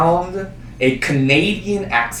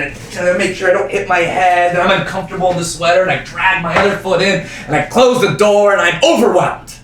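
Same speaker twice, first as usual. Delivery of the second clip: building overwhelm; 4 semitones higher than usual. Acted. Acts out squeezing into the car.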